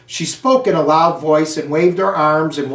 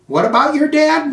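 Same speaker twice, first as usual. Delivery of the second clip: pointed teacher question; 11 semitones higher than usual. Acted. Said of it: "Miss Brisbane asked".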